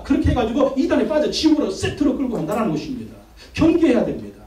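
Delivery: insistent, driving pulpit delivery; forceful preaching. Real, not acted. Pastor warns of bait from the devil, forceful preaching. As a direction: hammer the warning home to the congregation.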